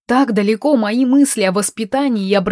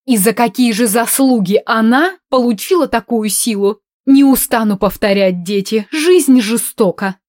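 tragic pronouncement; 3 semitones higher, 4 dB louder than usual. Acted. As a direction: declare it like a tragedy. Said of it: "трагически припечатала графиня".

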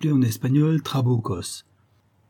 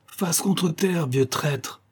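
higher, slow command, stressing contre; mock shout; 7 semitones higher, much slower than usual. Chief shoving the old man down and shouting. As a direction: throw the order down at him. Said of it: "et lui crie".

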